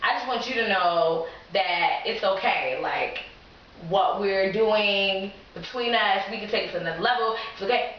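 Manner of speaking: a touch of earnest tenderness; tender confession. Retold or imitated. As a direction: pour your heart out gently. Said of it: "poured out my heart".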